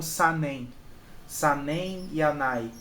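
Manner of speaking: "sanen" as two joined Portuguese syllables; "sanen" and "anai" said the mistaken Portuguese way; run-together syllables. Shown as a demonstration. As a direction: blend "anai" into one word without separate N. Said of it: "você não pronuncia essas palavras como".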